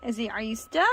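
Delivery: normal talking voice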